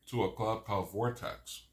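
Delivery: talking through a mouthful of burger; words round a bite of food; mouth full. Real, not acted. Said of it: "Sorry to talk with my mouth full".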